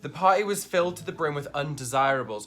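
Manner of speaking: lightly voiced stuffy gentleman; posh formal translation. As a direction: read it like an overly proper butler. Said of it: "posh translation of slang".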